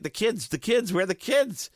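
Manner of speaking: put-on frantic high-pitched cry for the kids; retold panic. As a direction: replay the moment of panic, voice shooting up high.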